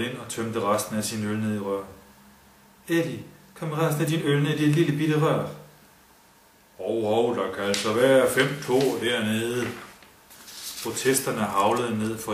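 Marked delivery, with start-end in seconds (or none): 2.9-5.5 Kurt urging. A narrator's reading. Kurt urges Eddie. 6.8-9.7 protesting lads. A narrator's reading. Jutlanders protest.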